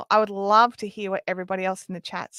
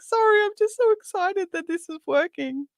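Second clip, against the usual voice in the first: high, gushing mock trainer voice; imitating excited trainer; 10 semitones higher than usual. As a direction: play the thrilled coach apologising.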